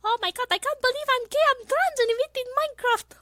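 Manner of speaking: put-on high girl voice, not high enough yet; almost there, still too low; Miku voice, too deep. Streamer's take that came out too deep, high. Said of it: "I was doing it too deep".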